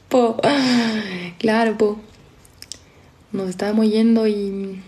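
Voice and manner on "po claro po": lightly imitated Chilean "po"; Chilean accent. Streamer showing the Chilean accent they like, light Chilean imitation. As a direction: try a little Chilean accent on the "po". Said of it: "el acento chileno también me gusta".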